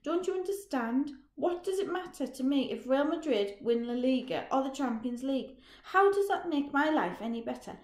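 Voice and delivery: high, loud, bitter yelling that climbs at the end; loud desperate fury at a dead-end life; furious shout. Acted. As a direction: rant it in rising rage. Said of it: "Roger shouts".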